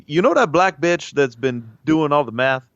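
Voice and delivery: mock verbatim astronaut impression; John Glenn impression. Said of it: "That's what John Glenn sounded like".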